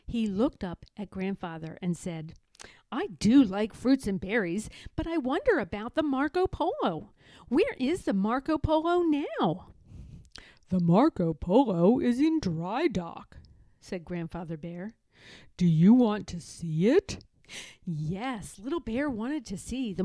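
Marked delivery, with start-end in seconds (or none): 2.9-9.7 higher, hopeful little bear; little cub voice. Acted. Little Bear asking his grandfather about the boat, higher and hopeful. 10.7-17.2 put-on a gentle old bear showing an old photo; Grandfather Bear. Grandfather Bear showing his grandson a photo, fond old bear voice.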